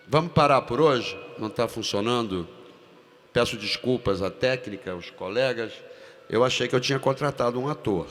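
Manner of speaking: loud, sarcastic director's rebuke; scornful outburst. Retold or imitated. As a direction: humiliate the actor in front of the crew.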